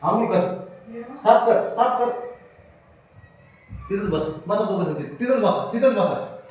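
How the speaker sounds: high pet-talk commands; high sing-song voice telling pets to sit. Real, not acted. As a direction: coo orders at the cats. Instructing pets in baby-talk tone.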